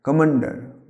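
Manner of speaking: "কমান্ডার" with the stress on "মা"; stress on second syllable. Shown as a demonstration. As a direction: lean on the middle of "কমান্ডার". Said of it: "ময়ের উপরে একটা stress পড়বে". ("কমান্ডার" মাঝের অক্ষরে জোর)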